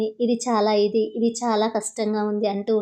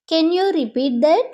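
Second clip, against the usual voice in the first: very slow, clear classroom English; slow model phrase; 4 semitones higher, 4 dB louder, much slower than usual. Shown as a demonstration. Teacher modelling the phrase for Telugu students, slow and clear. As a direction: spell it out slowly for learners. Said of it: "అప్పుడు ఇలా అంటారు".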